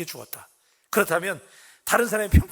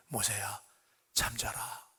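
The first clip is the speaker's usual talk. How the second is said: 아주 낮고 조용한 자장가 같은 말투; 아이를 재우듯 숨죽여 나직하게; 재우는 하나님; 8 semitones lower, 10 dB quieter, slower than usual. Acted. 하나님이 모세를 재우는 장면. (속삭이듯 다정하게 재우는 목소리)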